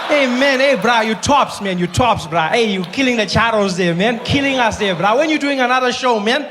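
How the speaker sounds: lightly voiced South African Indian guy. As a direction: chat him up like an excited fan with an Indian lilt. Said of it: "Indian guys".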